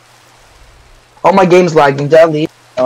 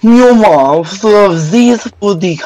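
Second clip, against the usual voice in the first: high meowing kitty voice; cat voice; 5 semitones higher, 4 dB louder, slower than usual. Acted. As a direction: meow like a playful cat. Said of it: "do a cat voice".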